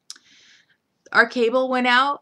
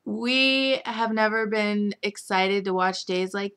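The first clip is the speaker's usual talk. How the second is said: whisper. Acted. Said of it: "hushed excited confession".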